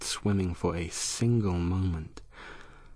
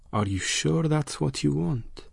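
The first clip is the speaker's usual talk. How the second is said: monster voice; 9 semitones higher than usual. Acted. Monster questions her.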